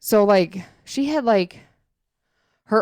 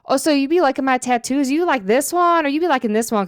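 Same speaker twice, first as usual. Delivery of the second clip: higher, lightly voiced chatty store worker; imitating store lady; 6 semitones higher than usual. Store lady quizzing Jamal about her tattoos, higher chatty imitation. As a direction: mimic her fishing for tattoo compliments. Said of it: "I'm gonna try to do the voices".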